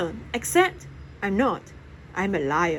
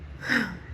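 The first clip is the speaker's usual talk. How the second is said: sigh; 6 dB quieter than usual. A narrator's reading. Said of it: "she sighs".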